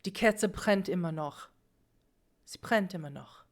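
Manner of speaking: grandmother speaking Hochdeutsch; plain Hochdeutsch, lightly acted old woman; standard German. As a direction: speak regular German, no regional dialect. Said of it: "she's gonna speak regular German".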